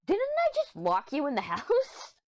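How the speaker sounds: high, slow, amused disbelief; giggling at mom being outside; laughing disbelief. Retold or imitated. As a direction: ask it half laughing in surprise. Surprised to see mom outside.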